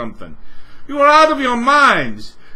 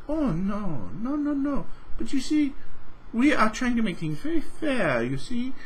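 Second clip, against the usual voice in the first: soft, softer, patronising company voice; mock Microsoft rep; 6 dB quieter than usual. Mocking Microsoft to the viewer, a soft patronising rep. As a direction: play the oily corporate excuse-maker, hushed.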